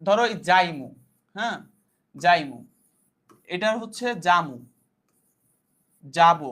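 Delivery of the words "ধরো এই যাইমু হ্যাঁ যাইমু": যাইমু said as a village dialect form, ending in a falling tune. Shown as a demonstration. Teacher showing students a village dialect word, dialect pronunciation. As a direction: give যাইমু its rural dialect sound. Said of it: "যেমন হচ্ছে".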